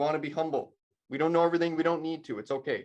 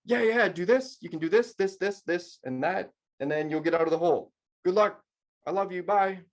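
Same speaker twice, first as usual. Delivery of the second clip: higher, breezy know-it-all who rattles off advice; chirpy engineer; 4 semitones higher than usual. Retold or imitated. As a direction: toss off quick instructions, then a cheery goodbye. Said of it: "the engineer goes".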